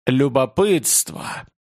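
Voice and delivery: slow, booming demon pronouncement; mighty demon voice. Acted. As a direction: drag out the word like an ancient demon. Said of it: "Могучий голос демона".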